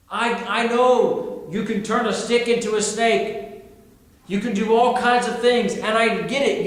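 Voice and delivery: high-pitched, insistent plea to be excused; pleading Moses. Retold or imitated. Reluctant Moses begs God to send someone else, pleading. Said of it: "Moses says".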